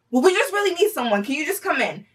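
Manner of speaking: pleading manager voice. Retold or imitated. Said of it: "she's like".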